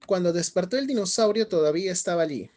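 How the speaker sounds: teacher reading the story to the class emphatically; emphatic reading. Shown as a demonstration. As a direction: present the text firmly to students. Teacher shows the text again.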